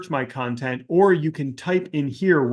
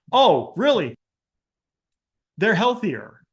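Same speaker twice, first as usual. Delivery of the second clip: higher, mock-astonished reply; sarcastic amazement; 4 semitones higher than usual. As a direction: pretend this is astonishing news. Sarcastic reply to obvious advice.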